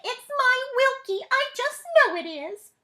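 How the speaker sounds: very high, loud, proud squeal; excited mother voice. Acted. Mother sure her son is the famous bug, squealing high. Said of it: "cried Wilkie's mother".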